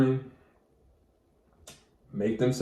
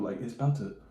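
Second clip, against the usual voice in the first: ordinary talk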